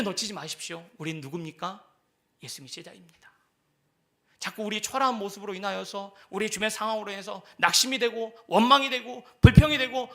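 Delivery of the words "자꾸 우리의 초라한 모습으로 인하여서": ordinary talk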